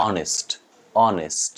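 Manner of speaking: অনেস্ট with an e in the last syllable, "o-nest"; everyday অনেস্ট with "e" before st; common direct pronunciation. Shown as a demonstration. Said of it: "আমরা এটাকে হয়তো অনেকে উচ্চারণ করি".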